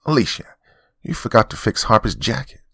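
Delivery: sharp, high, loud bark of an order. Acted. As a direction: snap at the maid. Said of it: "his wife set down her coffee and barked".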